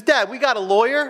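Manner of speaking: put-on high, rising kid's question; child asking Dad. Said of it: "He goes".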